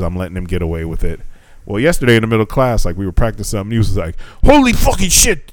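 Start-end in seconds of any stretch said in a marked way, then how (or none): 4.4-5.5 high-pitched imitation of a cursing kid; mock exclamation, pitched way up; imitated student outburst. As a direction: blurt it out high, mimicking a student. Retold student cursing in class.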